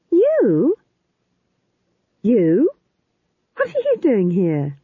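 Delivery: high startled cry of recognition; startled shriek. Acted. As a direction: gasp out the question in shock. Magrat startled by fool.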